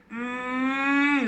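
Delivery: a drawn-out hum for cosy sleep; contented sleepy hum. A narrator's reading. Telling children how the lion slept, contented hum.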